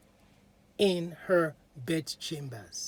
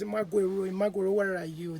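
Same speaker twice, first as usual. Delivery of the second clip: loud, high call; screaming for her; 5 semitones higher, 6 dB louder than usual. A narrator's reading. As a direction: shout it toward the house. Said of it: "He was screaming".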